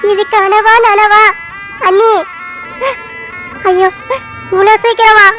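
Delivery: slow, crying words of disbelief; tearful disbelief. Acted. Widow asking if it's a dream, slow and crying. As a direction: let the sobs drag each word out. Widow grieving husband's death.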